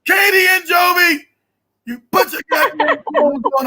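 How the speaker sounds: high, loud, whiny fake cry; hammed-up plea to Katie and Jovi; mock wailing. Begging daughters to put clothes on, mock crying.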